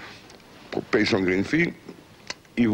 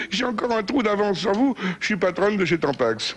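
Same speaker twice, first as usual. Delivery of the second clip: mock laughing; 9 semitones higher than usual. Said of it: "dit la gonzesse en riant".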